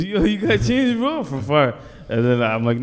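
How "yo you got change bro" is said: high, drawn-out begging call from far off; mock panhandler call. Panhandler calling from down the street, high and slow. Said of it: "He goes".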